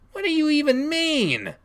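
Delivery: put-on very high, childlike disbelief; indignant protest. Child baffled by dad's accusation, indignant high protest. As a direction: squeak out an indignant question.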